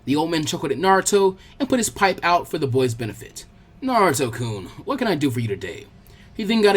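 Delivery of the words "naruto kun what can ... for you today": a lightly voiced kindly old man, lower; old leader greeting the boy, mild and easy; old Hokage.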